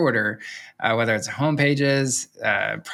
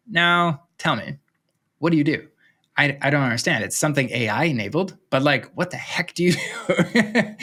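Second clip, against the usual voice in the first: nice Canadian; 2 semitones higher than usual. Retold or imitated. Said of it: "As nicely as possible in my Canadian accent".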